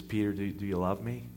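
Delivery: soft, searching question; gentle question. Acted. Jesus gently asks Peter if he loves him. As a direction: ask it quietly, from the heart. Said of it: "he says".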